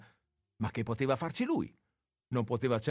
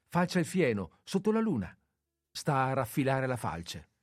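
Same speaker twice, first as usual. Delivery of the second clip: cheerful; 3 semitones higher than usual. Acted. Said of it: "rispose quella lietamente".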